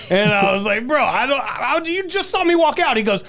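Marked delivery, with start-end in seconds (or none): 0.9-3.0 high, loud exasperated disbelief; retold protest. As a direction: act out arguing with the bouncer.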